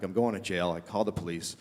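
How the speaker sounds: low, soft nervous call; subdued nervous voice; hushed panic. Retold or imitated. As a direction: keep it low and small, trying to sound innocent. Panicked, then calling police.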